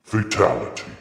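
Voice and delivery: loud booming announcer call; Mortal Kombat announcer. Pretend. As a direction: call it like a fighting game announcer. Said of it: "Mortal Kombat voice".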